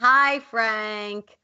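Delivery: high, drawn-out greeting call. Acted. Thistle greets Frank in the workshop, calling out high. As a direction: pitch it up to carry to another room.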